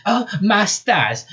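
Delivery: high, drawn-out southern squeal. Acted. Rabbit sees her robotic limbs, squealing. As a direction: squeal it in a freak-out. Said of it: "she squealed".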